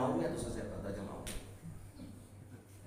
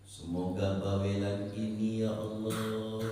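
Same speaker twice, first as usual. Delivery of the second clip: mock husband's prayer. Preacher mimics husband praying about nagging wife, sing-song. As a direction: pray like a long-suffering husband. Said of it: "punya istri kok bawel".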